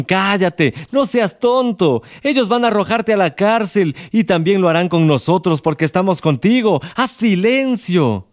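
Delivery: high, hushed scolding; hushing beggars. Acted. Other beggars silencing Bartimeo, high and hushed. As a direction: tell him to shut up, afraid. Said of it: "Los otros mendigos le dijeron".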